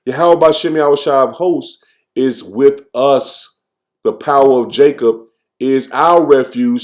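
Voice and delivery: slow, deliberate Bible reading; measured scripture recitation with pauses between phrases. Acted. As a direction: read the verse out slowly, phrase by phrase. Reads psalm verse aloud.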